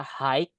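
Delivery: "high" misread with a k closing it; wrong pronunciation. Shown as a demonstration. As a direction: show the mistake, "high" said like "hike". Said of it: "Nggak boleh dibaca high".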